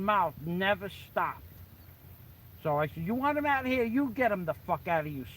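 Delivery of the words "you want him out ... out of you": retold comeback pitched well up; defiant challenge. Bouncer retelling his comeback to the boss, defiant. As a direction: fire the question back, high-pitched.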